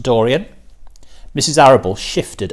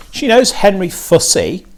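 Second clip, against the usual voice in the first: bright; 8 semitones higher, 3 dB louder than usual. A narrator's reading. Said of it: "said Missus Arable brightly".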